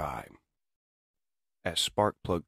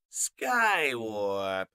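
villain robot; 6 semitones higher than usual. Acted. Villain finds his battered comrade.

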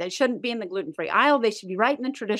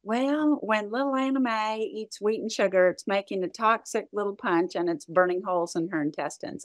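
light imitation of a Florida doctor's accent; doctor's verdict in a put-on Florida accent. Doctor tells a mother what food does, imitated Florida accent. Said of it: "in the best little Florida accent".

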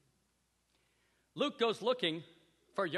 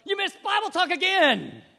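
loud, higher mock Vader threat; Darth Vader menace; 13 semitones higher, 16 dB louder than usual. A harsh discipler berates a failing brother, mock Vader. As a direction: scold like a Sith lord. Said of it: "we feel like Darth Vader".

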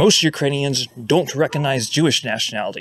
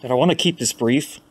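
talking around a cigarette; speaking while smoking; cigarette in mouth. Real, not acted. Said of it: "I'm smoking a cigarette right now".

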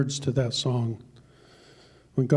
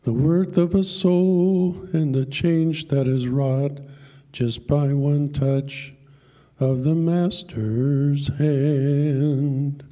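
poem recitation; slower than usual. Acted. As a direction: tell the poem like a heartfelt country ballad. Recites a poem over music.

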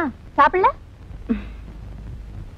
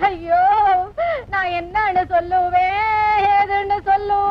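put-on slow, sobbing lament over her child; tearful lament. Mother laments to her husband, crying. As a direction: wail it out through tears. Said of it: "ஏண்டி புலம்புற?".

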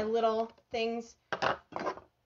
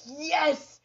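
a short celebratory cheer, pitched up; triumphant yes; 4 semitones higher, 4 dB louder than usual. Acted. Dieter seeing the scale go down, triumphant. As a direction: let out a pleased yes. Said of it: "some days you see it and it's down and you're like".

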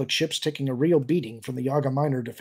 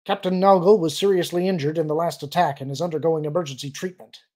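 stiff imitation; 4 semitones higher, 5 dB louder than usual. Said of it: "his best imitation of a typical Imperial's overly stiff speech".

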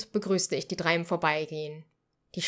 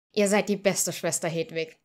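delighted; 2 semitones higher, 5 dB louder than usual. Acted. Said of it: "freute er sich".

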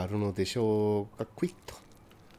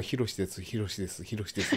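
Hiroshi imitation; 7 dB quieter than usual. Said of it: "ね、言い方やろ".

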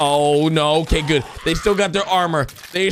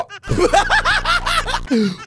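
high laugh breaking out; burst of laughter. Real, not acted. Streamer cracking up at Purple, a high burst of laughter. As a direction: crack up mid-sentence.

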